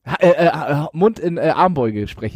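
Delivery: muffled, speaking into the elbow; hand over mouth. Real, not acted. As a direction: talk with your mouth behind your arm. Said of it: "mit Hand vorm Mund spreche".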